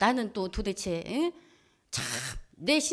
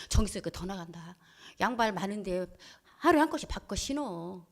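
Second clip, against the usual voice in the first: low, softened retold advice; mild, patient reasoning; speaking nicely; 3 semitones lower, 3 dB quieter than usual. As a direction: point it out gently, without scolding. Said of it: "좋게 말해".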